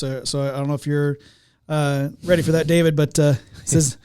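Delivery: ordinary talk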